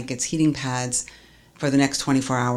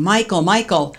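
urgent call of a name, a touch raised; calling his name; 4 semitones higher, 4 dB louder than usual. Retold or imitated. Wife calls out to her husband who stopped breathing, urgently. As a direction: call out to him, afraid he's gone.

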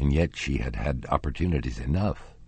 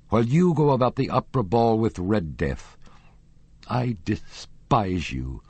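unvoiced whisper breaking into tears; tearful; 6 semitones higher than usual. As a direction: hiss it out as the tears come. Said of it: "And he burst into tears".

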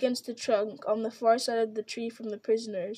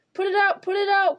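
high, loud panicked pleading; terrified cry; 9 semitones higher, 6 dB louder than usual. A narrator's reading. Merry, trapped in the tree, screams at Frodo and Sam in panic. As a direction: scream at them to stop the fire. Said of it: "cried Merry".

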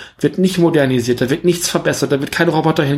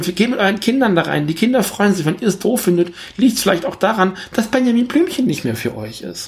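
raised, higher pitch, pressing the point; rising exasperation aimed at adult fans; heated appeal; 5 semitones higher than usual. Real, not acted. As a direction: urge grown-up fans to let go, rising in pitch.

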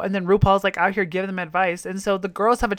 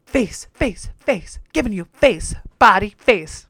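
Bibi Zahara Benet; 4 dB louder than usual. Retold or imitated. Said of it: "that was part of Bibi Zahara's Benet line".

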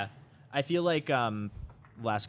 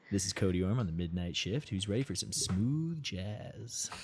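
midnight radio host; 4 dB quieter than usual. Pretend. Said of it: "do their best, like, midnight radio host".

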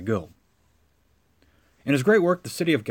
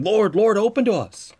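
higher, louder desperate plea; pleading cry; 7 semitones higher, 4 dB louder than usual. Retold or imitated. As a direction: beg at the shut door. Foolish virgins begging at closed gate.

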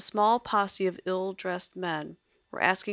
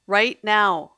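screaming; 2 semitones higher, 13 dB louder than usual. Acted. Lily screams at the maestro to flee. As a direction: yell it to get him out the door now. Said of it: "she screamed".

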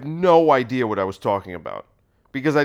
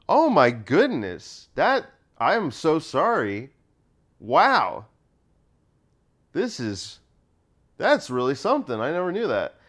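mock-earnest astonishment. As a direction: play innocent shock without sarcasm. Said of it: "sell it as though I'm not being sarcastic".

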